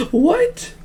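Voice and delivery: very high monster laugh then squeaky question; monster cackle. Acted. Spork monster appears.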